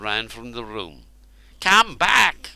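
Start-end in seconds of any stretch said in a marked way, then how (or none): 1.6-2.5 high, loud desperate scream. A narrator's reading. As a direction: yell after the fleeing guards. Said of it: "screamed Cernus".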